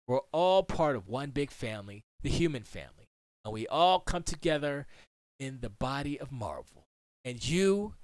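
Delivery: reading a speech with feeling; heartfelt quote reading. Acted. Host reads Stan Lee quote to viewers, heartfelt. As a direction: deliver the quote like a tribute.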